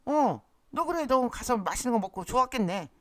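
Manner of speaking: sarcastic dig, lightly acted; sarcastic sneer. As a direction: imitate someone needling their partner with fake approval. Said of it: "계속 빈정거리죠".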